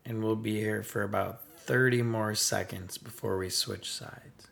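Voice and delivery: even, softened breathing-meditation guidance; unhurried meditation teacher, level and gentle; guided meditation. Real, not acted. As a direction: guide listeners calmly through each breath.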